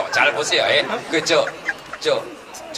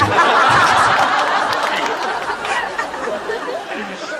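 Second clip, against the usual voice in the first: high breathy burst of laughter; cackling laughter, higher; long high laugh. Real, not acted. Laughs at own joke.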